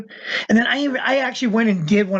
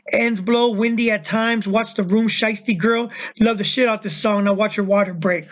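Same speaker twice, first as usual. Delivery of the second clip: lyric recital. Acted. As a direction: rap lyrics read aloud, unsung. Reads out rap lyrics.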